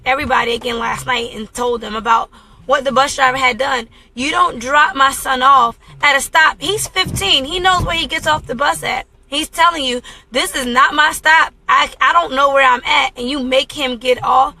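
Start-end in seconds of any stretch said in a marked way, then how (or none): 4.1-14.5 indignant scolding. Retold or imitated. Mother scolding the bus driver for dropping her son off, indignant. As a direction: tell off the driver, voice lifting in protest.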